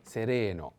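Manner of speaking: "sereno" with RE lengthened; stress on second E. Shown as a demonstration. Teacher shows where the accent goes, "sereno" stressed on RE. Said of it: "put the accent on the second E".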